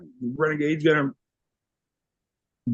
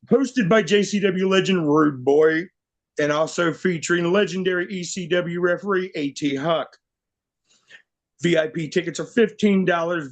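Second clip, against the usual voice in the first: booming ring announcer. Acted. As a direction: hype the card like a ring announcer. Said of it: "let me get my announcer voice on here".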